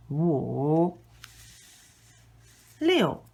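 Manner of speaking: each number slow and clearly toned for repeating; counting with tones. Shown as a demonstration. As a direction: count one to ten, tones exaggerated for the learner. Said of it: "go through them once again".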